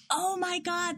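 high, drawn-out amazement; amazed reaction. Retold or imitated. Retelling a breakthrough moment to cohost, amazed. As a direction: relive the thrill of noticing it.

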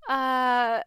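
high, anxious run of worried questions; panicking. Retold or imitated. Doubting herself about adding another pet, in high anxious panic. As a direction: fret out loud, voice pitched high. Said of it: "I'm just starting to panic".

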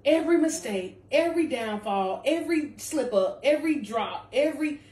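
rising preacher's list; preaching build. Real, not acted. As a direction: preach it, driving each every home.

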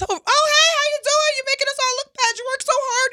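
high, sugary fake-friendly coworker greeting; fake sweet greeting. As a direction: put on a falsely sweet voice to a coworker. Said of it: "I usually give him, like, this".

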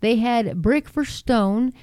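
measured, deliberate Bible reading; Scripture reading. Real, not acted. Reading Genesis aloud to listeners, measured and deliberate. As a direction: read it out slowly, phrase by phrase.

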